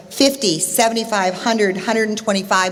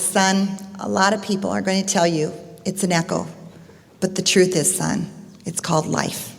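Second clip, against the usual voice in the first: gently voiced father; 4 dB quieter than usual. Father explaining the echo to his son, gentle understated hush. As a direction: explain softly, trailing down to a hush. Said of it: "And his father says".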